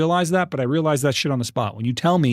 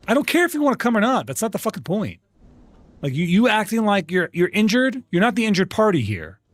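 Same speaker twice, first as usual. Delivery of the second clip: higher, exasperated retelling of the argument; mock heated retort; 6 semitones higher than usual. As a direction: replay the fight with rising indignation. Retold heated argument with brother.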